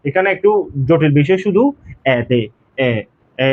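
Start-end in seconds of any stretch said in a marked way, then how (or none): 3.4-3.5 এ said as a drawn-out open vowel; demonstrated vowel. Shown as a demonstration. Teacher showing learners how this is pronounced, demonstrated vowel. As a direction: hold এ open and long. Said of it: "এটা এরকম উচ্চারণ হবে".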